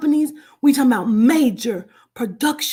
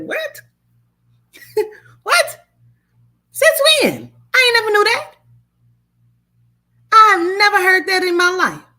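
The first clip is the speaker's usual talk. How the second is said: much higher and louder, a shocked laughing outcry; stunned disbelief; 9 semitones higher, 6 dB louder than usual. Real, not acted. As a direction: shriek your disbelief at the news. Shocked by grandma voodoo news.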